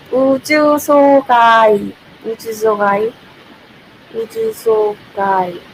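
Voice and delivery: 우주소가이 sounded out three ways, searching for the reading; trying out a name. Real, not acted. Streamer sounding out a viewer's name, unsure. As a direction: test the name 우주소가이 aloud syllable by syllable. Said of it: "Did I read your name right?".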